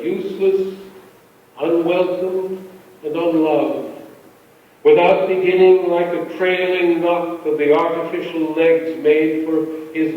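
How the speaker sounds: measured, unhurried poem reading with pauses between phrases; poetry reading. A narrator's reading. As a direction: read the poem aloud, letting each line settle. Poet reading his poem.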